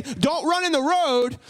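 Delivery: slow, drawn-out stern command; stern warning. Shown as a demonstration. Parent warning kid about the road, slow and stern. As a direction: warn a child off danger, stretching the words. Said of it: "when you have that stern".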